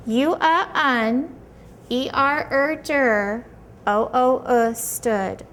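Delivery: "un, der, stood" broken into separate clipped syllables; staccato. Shown as a demonstration. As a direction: tap out each syllable of "understood", then blend. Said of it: "you do it syllable by syllable".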